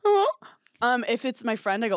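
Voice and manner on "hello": high, rising, uneasy hello; mock-anxious questioning pickup; panicked phone answer. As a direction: answer as if dreading who is calling. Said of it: "I'm having a panic attack. I'm upset".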